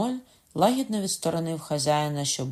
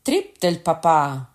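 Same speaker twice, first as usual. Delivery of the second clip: a louder, slow roared oath; bellowing oath; 3 semitones higher, 7 dB louder, slower than usual. A narrator's reading. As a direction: roar it while drawing the sword. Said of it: "загорлав Кокона".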